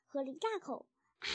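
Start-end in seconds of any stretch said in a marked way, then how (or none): 1.2-1.3 breathy gasp after a swig. A narrator's reading. Little fox after strong cider, gasping. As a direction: let out a gasping "ah". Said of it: "他喘息着说".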